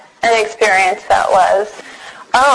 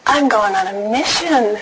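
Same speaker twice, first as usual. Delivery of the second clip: retold giving in; 4 dB quieter than usual. She retells giving in to the mission call, resigned. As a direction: give in with a mild laugh. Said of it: "and knew".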